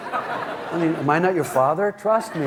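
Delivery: usual speaking voice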